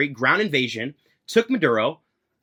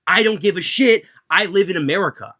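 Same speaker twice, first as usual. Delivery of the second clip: heated outburst; 4 semitones higher, 4 dB louder than usual. Real, not acted. Ranting about foreign wars.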